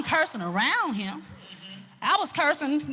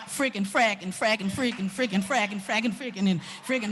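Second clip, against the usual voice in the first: low, rhythmic grumbled cursing; playful substitute cuss words, pitched down; stand-in cussing; 4 semitones lower, 4 dB quieter than usual. Acted. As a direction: grumble mock swearwords in a low loop. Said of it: "I would have been cussing".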